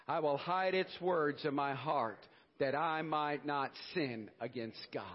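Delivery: slow, measured Bible pledge reading; solemn recitation. Acted.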